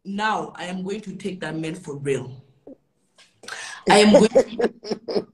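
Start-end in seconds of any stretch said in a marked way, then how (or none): 3.9-5.3 slow threat. Real, not acted.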